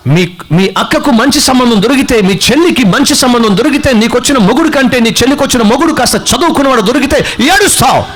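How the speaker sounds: preaching rebuke. Real, not acted. Preacher chiding listeners who envy siblings' marriages, rebuking. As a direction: build a scolding list to the punch.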